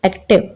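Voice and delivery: "एक्टिव" repeated as two beats, एक and टिव; two-part word. Shown as a demonstration. Teacher repeating the example, "एक्टिव" in two syllable beats. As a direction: break "एक्टिव" lightly after एक. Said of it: "एक्टिव में दो parts बन रहे".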